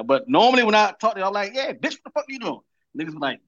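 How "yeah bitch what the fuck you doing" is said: higher-pitched, softer teasing jab; playfully rude greeting. Retold or imitated. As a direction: greet a buddy with mock rudeness. His usual rough phone greeting, acted.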